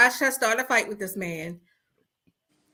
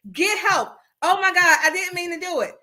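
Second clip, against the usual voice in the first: high frantic pretend remorse; mock remorseful wife; 6 semitones higher than usual. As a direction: play the sorry wife, panicky.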